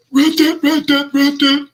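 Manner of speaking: high raspy coach impression; Rizzy voice impression. Host imitating the head coach at a press conference, high and raspy. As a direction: play the coach at the podium, raspy. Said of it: "in your Hayner voice".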